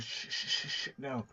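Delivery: unvoiced whisper, shushing; retold whispered shush. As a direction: hush him in a whisper. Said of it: "he goes".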